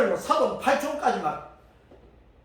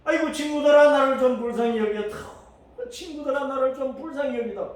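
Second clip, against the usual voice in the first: pleading cry; 3 semitones higher than usual. Acted. Job pleading to friends.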